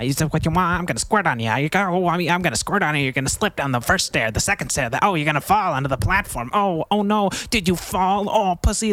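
high, jeering taunt with a laugh on motherfucker; mock taunting. Taunting the peeping neighbor, high and jeering. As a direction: needle them like a gloating lunatic.

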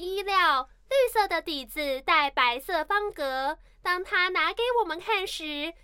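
slow, formal recital voice; recitation contest reading. Shown as a demonstration. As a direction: read it like a speech contest. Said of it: "你走那个朗读比赛那个步骤把它走完".

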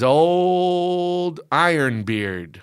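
slow mock pirate drawl. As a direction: stretch it like an old pirate. Mock pirate nickname, drawn out.

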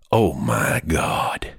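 slow low whisper; awed whisper. Acted. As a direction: whisper in awe. Whispered exclaim.

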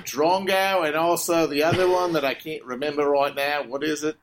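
hammed-up Aussie slang in a fake accent; broad put-on Aussie accent; mock Australian accent. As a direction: keep up a badly faked Australian twang. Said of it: "this is a perfect Australian accent".

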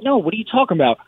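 high-pitched replay of disbelief; retold baffled denial. Fighter retelling his answer to his wife, baffled and high. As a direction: pitch it up, quoting your own confusion.

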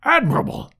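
high-pitched exclamation of approval; an orator's delighted outburst; emphatic cry. A narrator's reading. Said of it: "cried Challenger".

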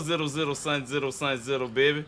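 fast, soft New Orleans run-together mumble; soft rapid New Orleans slang. Retold or imitated. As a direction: jump rope the New Orleans syllables quietly. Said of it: "they talk like this".

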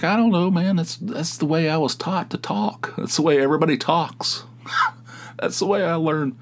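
defensive protest. Retold or imitated. Defending himself to the host.

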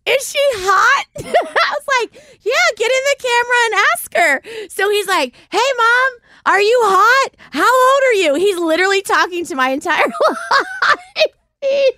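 high, giggly retelling; laughing. Real, not acted. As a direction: tell it while cracking up. Cracking up as she retells.

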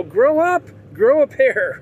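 mock drill sergeant. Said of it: "wanna be that Marine drill sergeant".

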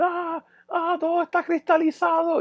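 a high, spaced-out moan of wonder; lightly imitating the high, dazed friend; dazed tripping friend. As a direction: play him lost in the hallucination. Tripping friend says everything crystallized.

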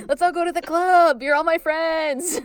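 high, whooping party animal; rowdy mock celebration; Greed. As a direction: whoop drawn-out words to the crowd. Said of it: "it would be Greed".

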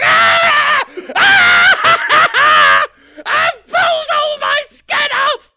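high, loud hammed-up screams; high, slow mock-agonised skeleton yelling; screaming skeleton. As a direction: shriek in comic pain, high and loud. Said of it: "a skeleton there going".

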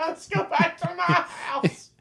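high, slow, crooning come-on; mock seductive. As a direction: croon it like a smooth charmer. Repeating dad line mockingly.

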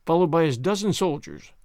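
usual speaking voice

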